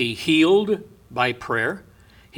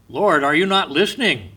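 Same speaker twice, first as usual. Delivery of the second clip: higher, exasperated plea to God; aggravated pleading; 4 semitones higher, 4 dB louder than usual. Acted. Psalmist crying out to God, aggravated pleading. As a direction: plead as if God is ignoring you, mildly acted. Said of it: "but also in aggravated pleading".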